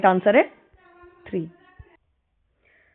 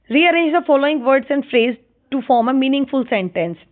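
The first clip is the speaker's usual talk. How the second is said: slow instruction reading; much slower than usual. Shown as a demonstration. Reads instruction aloud.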